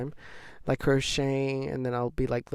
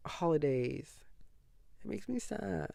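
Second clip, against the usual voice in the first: whispered; 5 dB quieter than usual. Real, not acted. Pity for holiday workers.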